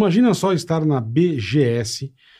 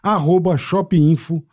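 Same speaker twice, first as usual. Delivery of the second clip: upbeat sponsor ad read; 2 semitones higher than usual. Acted. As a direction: sell it like a radio ad.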